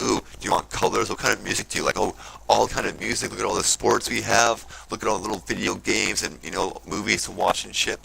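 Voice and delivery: mocking a cheery salesman's pitch of shiny distractions; mock enthusiastic pitchman. Mocking consumer culture's sales pitch.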